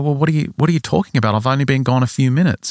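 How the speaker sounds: acted-out baffled denial; confused protest. Father arguing he was gone only minutes, baffled protest.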